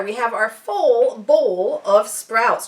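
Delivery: slow, careful tongue twister setup; drawing out each word slowly; slow deliberate. Shown as a demonstration. To viewers, saying the phrase slowly as a tongue twister. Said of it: "Try saying that ten times fast".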